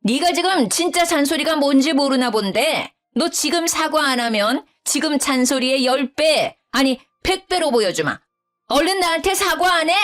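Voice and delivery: high-pitched angry mother-in-law demanding an apology; yelling mother-in-law. Acted. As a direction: shout her down from outside the door. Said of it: "소리를 지르더라고요".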